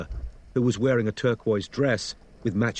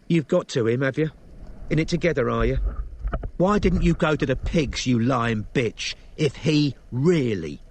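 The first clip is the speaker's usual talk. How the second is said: angry accusation; 3 semitones higher than usual. Acted. Elisa accusing Robin angrily.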